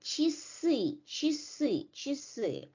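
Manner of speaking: "Часы" said chi-SY, first vowel a short i; teacher's drill of "часы", stress on the last vowel; short unstressed E. Shown as a demonstration. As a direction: repeat "часы" with reduced first syllable and stressed ending. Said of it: "pronounced as a short E".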